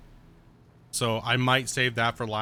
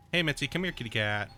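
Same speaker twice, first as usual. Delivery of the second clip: calling a pet. Real, not acted. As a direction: coax the cat over. Calling the cat over.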